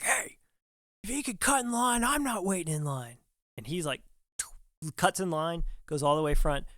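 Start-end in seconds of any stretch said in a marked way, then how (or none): 0.0-3.2 high-pitched mock angry redneck complaint. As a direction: play the angry redneck, pitched up, griping about the line-cutter. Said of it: "like, angry redneck dude".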